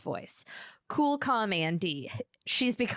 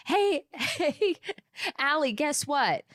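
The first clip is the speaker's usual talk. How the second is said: calling out playfully; 8 semitones higher, slower than usual. Retold or imitated. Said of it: "I'm like".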